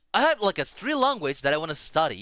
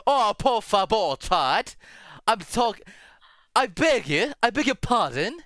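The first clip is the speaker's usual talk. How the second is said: higher-pitched, hammed-up British pleading; mock British; 5 semitones higher than usual. Streamer mock-pleading with the chat, playfully British. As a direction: beg in a playful British accent. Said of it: "it sounds like a British".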